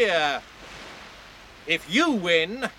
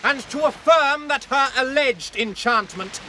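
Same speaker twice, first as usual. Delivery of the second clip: ringing formal proclamation; knight's loud challenge. Acted. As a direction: proclaim the accusation for the whole crowd. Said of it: "gives voice to his challenge".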